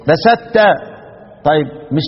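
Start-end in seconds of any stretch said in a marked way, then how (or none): 0.1-0.6 بسطت said as besatt with doubled t; demo of merging. Shown as a demonstration. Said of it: "يبقى لقينا إيه".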